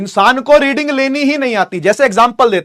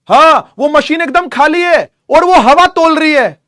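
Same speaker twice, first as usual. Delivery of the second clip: amazed, slowed; 4 semitones higher, 3 dB louder, slower than usual. Real, not acted. Amazed that scale weighs air.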